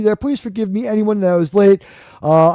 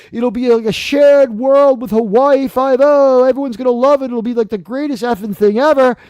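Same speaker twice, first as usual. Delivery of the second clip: hyped-up pitch; 3 semitones higher than usual. Retold or imitated. Acting out an overhyped show pitch.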